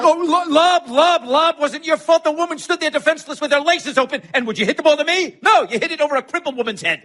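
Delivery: sarcastic furious tirade; furious shout. Acted. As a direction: yell the accusation in full fury. Shouting quarrel with friend.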